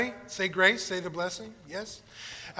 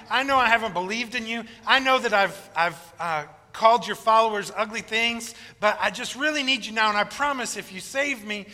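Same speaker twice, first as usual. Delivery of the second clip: pleading camper; 2 semitones higher than usual. Acted. Atheist begging God to save him. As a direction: plead for your life.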